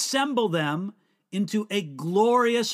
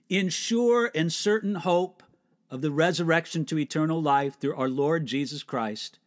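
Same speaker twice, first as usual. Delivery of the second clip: hushed graveside prayer; 2 semitones lower than usual. Shown as a demonstration. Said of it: "to be spoken at a graveside".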